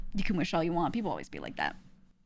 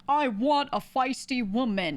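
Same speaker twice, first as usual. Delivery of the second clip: slow, raised, louder parody voice; mocking a dude; 4 semitones higher, 4 dB louder, slower than usual. Imitating dudes who chase feisty women, mocking. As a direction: put on an eager dude, drawn out. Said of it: "there are dudes that live their lives being like".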